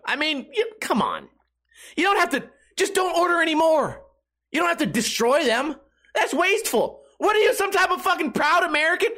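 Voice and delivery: high, scornful disbelief; incredulous mockery. Real, not acted. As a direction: scoff at the waste in disbelief. Mocking wasteful vodka destroyers.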